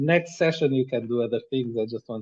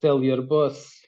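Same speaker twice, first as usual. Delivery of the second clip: put-on a light Russian accent on a big bulky guy. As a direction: thug handing over the crate with a hint of Russian. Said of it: "I don't know why I'm doing Russian accent".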